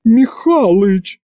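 high, slow drawn-out roar of his name; roaring call. A narrator's reading. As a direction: bellow his name at him. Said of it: "снова взревела Ягута". (взревела, зовя деда)

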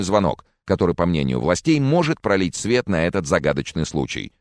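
lightly voiced off-screen newsreader; a touch of formal bulletin delivery; TV news voice-over. Voice-over reports on the student search, lightly formal newsreader voice.

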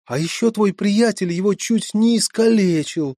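high, loud indignant scolding; indignant mother. Acted. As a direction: scold the daughter, outraged. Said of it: "негодовала мать". (возмущённая мать)

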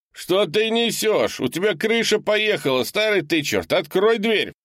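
freezing man outside begging to be let in; desperate shouting man. A narrator's reading. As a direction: pound on the door with your voice. Leonardo furious at the door.

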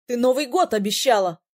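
loud protesting shout. A narrator's reading. Prince dodging a pillow, shouting a reproach. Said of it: "крикнул Ирас".

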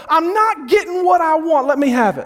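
high, lightly voiced child's whine; whiny toddler. Toddler whining at his dad, light mock whine. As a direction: pout it like a demanding little kid. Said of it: "and he would go".

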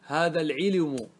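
slow العلم with an extra vowel after l, "al-'ilumu"; damma moved to lam. Shown as a demonstration. Teacher trying the vowel transfer, slow "al-'ilumu" for العلم. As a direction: draw out العلم, adding u after the l. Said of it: "انقل الضمة إلى اللام".

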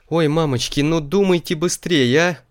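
high, loud frightened pleading. A narrator's reading. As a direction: beg in a panic. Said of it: "возмолился поросёнок".

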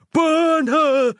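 a mob howling for blood; mob screaming. A narrator's reading. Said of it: "they screamed in unison".

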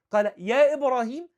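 loud, high and harsh, a father's rebuke; harsh father's reply. Retold or imitated. Idol-worshipping father rebuking his son harshly, loud and high. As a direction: snap out the son's name coldly. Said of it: "لا، بص، في قسوة".

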